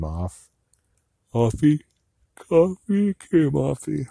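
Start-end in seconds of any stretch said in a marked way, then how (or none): 1.3-4.1 much higher and slow; mock-squeaky echo; silly high voice. Echoing her own words in a silly voice.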